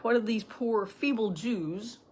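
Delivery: mock pity, slowing right down on the last words. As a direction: imitate bullies making fun, drawing it out. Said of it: "began to mock them and make fun of them".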